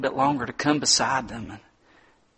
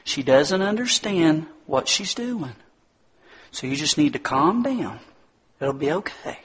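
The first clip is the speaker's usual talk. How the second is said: soothing mom; 5 semitones higher than usual. Retold or imitated. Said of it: "She said".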